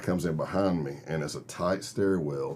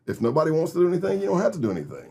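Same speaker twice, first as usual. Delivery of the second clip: higher, fast, pressing plea; pressing the bikers, voice pitched up; urgent plea; 10 semitones higher, 3 dB louder, much faster than usual. Retold or imitated. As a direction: talk them down quickly. Pleading with suspicious gang.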